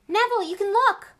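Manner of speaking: high, loud joyful shout; excited call. Acted. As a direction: call out the good news. Ron calls to Neville at match.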